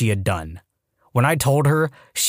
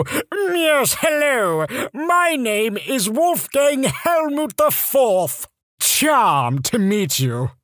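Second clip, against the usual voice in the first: much higher, slow, hammed-up posh British accent; worst British accent; 11 semitones higher, much slower than usual. Introducing yourself as Wolfgang Helmut, in a hammed-up British accent. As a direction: drawl it out in a terrible mock British accent. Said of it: "put on the worst British accent you could".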